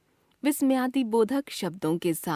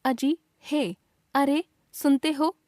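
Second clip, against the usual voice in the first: calling out; 5 semitones higher than usual. Shown as a demonstration. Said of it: "संबोधन बोधक".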